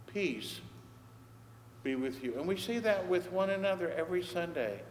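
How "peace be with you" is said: soft blessing. Shown as a demonstration. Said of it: "the Lord assures Gideon".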